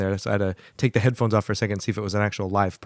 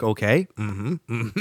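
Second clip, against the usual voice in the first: mock agreeable; much slower than usual. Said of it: "So that's why I was like".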